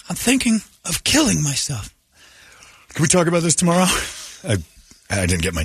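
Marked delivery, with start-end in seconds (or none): 0.1-3.9 mock dismissive. Acted dismissive spouse.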